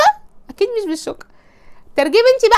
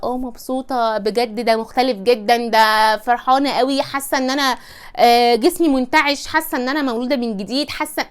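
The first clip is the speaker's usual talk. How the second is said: gushing wife. Acted. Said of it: "رد ال-، الست في الموقف ده".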